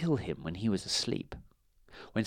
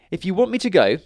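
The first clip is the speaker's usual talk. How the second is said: higher, louder, sly offer; mock casual; 8 semitones higher, 6 dB louder, faster than usual. A narrator's reading. Stan setting terms for the dragons. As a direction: say it with a knowing lilt.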